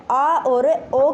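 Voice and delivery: slow, drawn-out 'आ' and 'ओ', kept distinct; contrasted vowels. Shown as a demonstration. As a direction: stretch आ, then ओ, as separate sounds. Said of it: "के बीच की ध्वनि होती है". (आ और ओ को खींचकर अलग-अलग बोलें)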